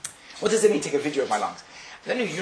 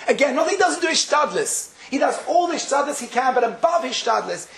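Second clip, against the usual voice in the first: high-pitched, emphatic sermon teaching; fervent scriptural exposition, high-pitched; impassioned preaching; 7 semitones higher than usual. Real, not acted. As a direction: drive the teaching home, voice pitched up. Preaches on accepting suffering.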